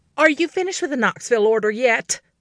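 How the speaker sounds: sharp, fast bellow edged with panic. Narrator voicing her mama calling from the other room, in a sharp, panicked bellow. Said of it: "Her tone was sharp and edged with panic".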